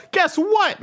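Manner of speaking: high mock voice. GM voices Otis's dad line.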